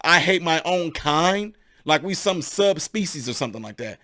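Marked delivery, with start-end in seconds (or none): 0.0-1.5 a slow, sneering parody of the critics; mock their words with a slow rising sneer; mocking quote. To black critics, repeating their words in slow mockery. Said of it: "what you make us sound like".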